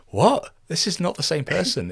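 high, loud baffled "what?"; disbelief. Acted. Listener hearing posh actor's real voice, baffled disbelief. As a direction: blurt it out in mock bewilderment. Acts out reaction to the accent.

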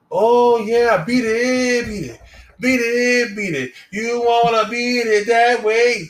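hammed-up Indian accent, high and loud; mock Indian accent. A traveler in the desert answering, in a loud mock Indian accent. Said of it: "Indian, man, Indian".

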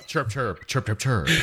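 chirping like a bird; bird chirps. Pretend. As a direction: say it like a little bird.

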